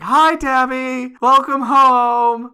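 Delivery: high drawn-out cheerful hello from a soot-covered husband; cheery Fester. Retold or imitated. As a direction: greet her brightly, oblivious to the bomb. Fester cheerfully greeting after the bomb.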